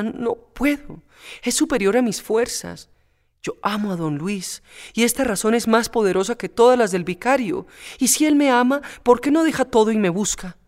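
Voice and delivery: a heart giving way; Pepita's anguish. Acted. Pepita confessing love for don Luis to Antoñona, anguished.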